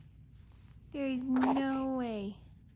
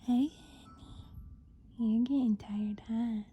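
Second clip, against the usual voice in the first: whisper; 3 semitones lower, 5 dB quieter than usual. Real, not acted. Whispering to tired baby.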